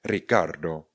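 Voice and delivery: "Ricardo" with the opening R rolled; growled R. Shown as a demonstration. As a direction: trill into "Ricardo" as a model for repeating. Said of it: "Jenom více zavrčte".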